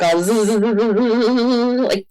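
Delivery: buzzing zzz. Retold or imitated. Feeling buzzed with energy.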